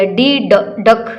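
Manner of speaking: ड alone, then डक; teacher modelling ड, डक; phonics sound demo. Shown as a demonstration. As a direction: sound out ड before डक. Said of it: "join कर दिया".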